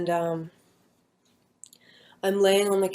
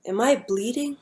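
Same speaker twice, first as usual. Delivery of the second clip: confused question; 5 semitones higher than usual. Retold or imitated. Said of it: "I just remember asking them".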